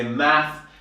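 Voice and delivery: "math" said with no final s, the American way. Shown as a demonstration. Teacher showing students the American word, said "math" without s. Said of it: "In American English, they say".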